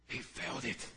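He felt it. said low and soft; quiet. Shown as a demonstration. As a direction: drop the voice right down on He felt it. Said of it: "He'd never heard his voice".

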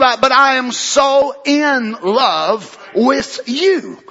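drawn out slowly and lingering; tender, slow declaration. Shown as a demonstration. Husband telling his wife he is in love, slow and tender. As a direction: let each word of so in love linger. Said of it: "Not, not just".

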